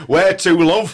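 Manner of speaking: a hint of a chirpy cabbie; cab driver voice. Learner playing along in the role play as a cabbie. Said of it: "playing along, turning on, going".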